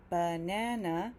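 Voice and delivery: slow "banana" in three clear sounds; three syllables. Shown as a demonstration. Teacher counting the sounds in banana for learners, three syllables. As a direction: stretch "banana" over three sounds, middle one strongest. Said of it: "is three sounds".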